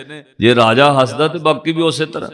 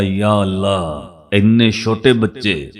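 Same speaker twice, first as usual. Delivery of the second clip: slow, mildly awed exclamation; retold amazement, slow and low-key; astonished; 3 semitones lower, slower than usual. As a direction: imitate a stunned onlooker, drawing out the words. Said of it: "ਉਹ ਹੈਰਾਨ ਹੋ ਕੇ ਕਹਿੰਦਾ".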